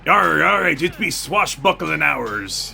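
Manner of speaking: yarr it up like a pirate. Pretend. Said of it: "I don't know why I'm doing a pirate voice".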